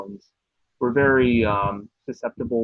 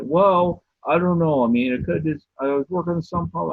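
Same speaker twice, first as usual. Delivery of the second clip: higher, louder hedging dad voice; a mock-unsure father shrugging it off; skeptical dad; 7 semitones higher, 5 dB louder than usual. Dad explaining away the footsteps, hedging loudly. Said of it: "He's like".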